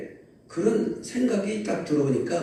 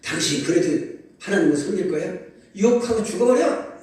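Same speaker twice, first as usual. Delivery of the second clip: wife's scolding; 5 semitones higher, 3 dB louder than usual. Acted. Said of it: "이 욥한테 뭐라고 하냐면".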